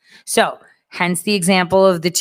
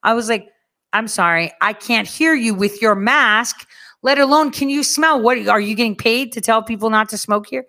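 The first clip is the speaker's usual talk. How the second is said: higher, sarcastic challenge to the mask guy; sarcastic comeback; 4 semitones higher than usual. Retold or imitated. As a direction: needle him with mock politeness. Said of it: "And I'm like".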